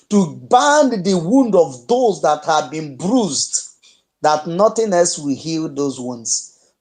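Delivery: slow, weighty orator's cadence; solemn speech. Acted. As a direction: lay each phrase down slowly like a rally speech.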